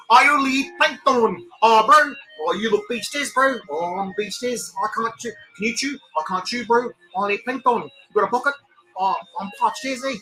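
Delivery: goofy beached whale Kiwi bro. Pretend.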